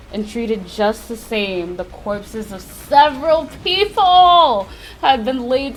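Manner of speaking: measured visual novel reading, slowing on key phrases; deliberate narrator voice; story narration. A narrator's reading. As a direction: read it like a grim storyteller. Reads game's narration aloud.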